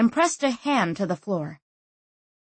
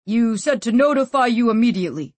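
muffled voice; 4 semitones higher, 5 dB louder than usual. A narrator's reading. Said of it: "said the voice".

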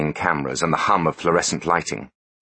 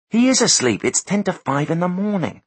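higher, smug know-it-all voice; smug techie voice; 13 semitones higher than usual. Acted. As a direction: play the gloating tech expert, pitched up. Foley voiced, exasperated.

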